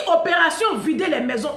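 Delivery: loud, laughing rallying cry; laughing shout. Real, not acted. Rallying her campaign, laughing. (cri joyeux en riant)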